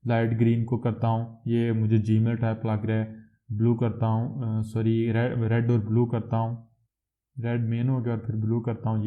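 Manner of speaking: ordinary talk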